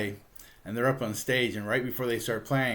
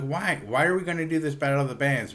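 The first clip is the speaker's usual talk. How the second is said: retold protest; 5 semitones higher, 4 dB louder than usual. Bandmates object to the contest, retold.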